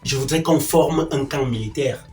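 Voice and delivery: low, soft, controlled displeasure; quiet reproach. Acted. Man reproaching his partner about their life, low and restrained. Sternly recalling what he wanted.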